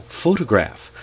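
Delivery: "photograph" with PHO punched; first-syllable stress. Shown as a demonstration. Teacher repeats an example for learners, PHO-tograph. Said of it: "we put the stress in different places".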